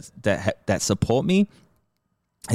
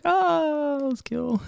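mock unimpressed viewer; slower than usual. Viewers reacting to a skit that flopped, mock unimpressed. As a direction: imitate a viewer politely underwhelmed.

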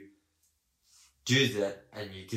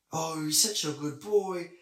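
high, drawn-out praise for a dog; slow, raised-pitch pet talk; gushing vet voice; 6 semitones higher, 3 dB louder than usual. Retold or imitated. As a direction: coo at a good dog, slowly. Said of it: "impersonating me to speak like that".

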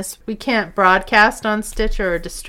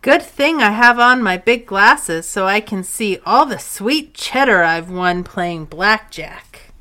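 hammy actor; 5 dB louder than usual. Acted. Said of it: "a dramatic reenactment".

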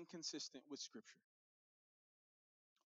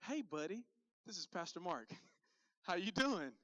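cheery pastor greeting; 2 semitones higher, 4 dB louder than usual. Retold or imitated. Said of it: "The voice on the other side says".

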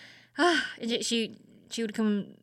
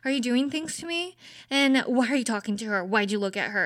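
put-on anxious girlfriend; 3 semitones higher, faster than usual. Mock anxious girlfriend grilling her boyfriend money. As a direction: playfully act out a suspicious partner. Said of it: "the anxious girlfriend that checks the phone".

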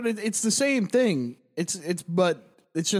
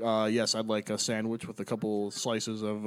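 ordinary American customer; 9 semitones lower, 6 dB quieter than usual. Retold or imitated. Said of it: "As opposed to here, where people are like".

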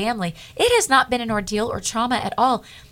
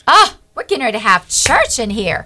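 louder, rousing church exclamation; excited outburst; 3 semitones higher, 7 dB louder than usual. Retold or imitated. Woman jumping up in the lobby, excited and loud. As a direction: call it out like a revival is starting.

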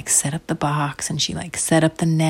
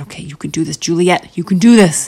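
self pep talk; 6 dB louder than usual. Acted. Nervous mom before catching the bug, bucking herself up. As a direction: psych yourself up, firmer each time. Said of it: "gave herself a little pep talk".

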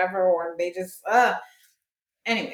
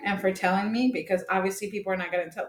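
mock-grateful, sarcastic teenager; lightly snide retold politeness; smart ass. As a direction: lay on insincere thanks. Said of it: "I was being a smart ass".

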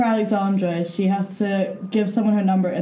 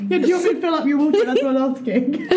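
laughing; 4 semitones higher than usual. Pretend. Joke asking to fill water.

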